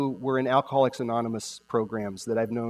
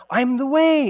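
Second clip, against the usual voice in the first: "I'm the way" raised high and louder; stress on the first part; 12 semitones higher, 7 dB louder than usual. Shown as a demonstration. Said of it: "hardly ever heard anyone speak about the first part".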